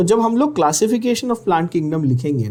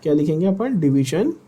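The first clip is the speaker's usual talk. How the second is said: stretched out, word by word, for notes; slow dictation. Shown as a demonstration. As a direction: dictate each word slowly so the class can write. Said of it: "ध्यान से नाम सुनना, repeat करना।".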